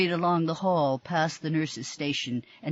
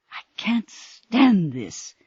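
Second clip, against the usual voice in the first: slow hissed whisper in someone's ear; 7 semitones higher, 8 dB louder, much slower than usual. A narrator's reading. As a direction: hiss it so no one else hears. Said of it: "Missus Mitchell hissed in Cassandra's ear".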